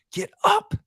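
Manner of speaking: high, straining yell of a coach; coaches screaming. Retold or imitated. Coach yelling at a fallen player to get up, high shout. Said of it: "The coaches were screaming out of their heads".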